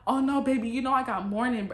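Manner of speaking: acted excuse, puffed out loudly; blowing breath out. Woman dodging a kiss with morning-breath excuse, blowing breath out. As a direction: push the breath at him on the words. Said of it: "I'm trying to, like, blow that bitch".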